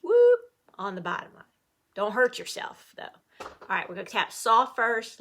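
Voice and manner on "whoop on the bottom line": loud. Shown as a demonstration. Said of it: "clap loud".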